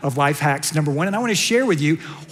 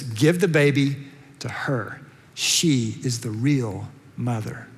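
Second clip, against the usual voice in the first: gentle verdict; 7 semitones lower, 4 dB quieter, slower than usual. Acted. King gently names the real mother.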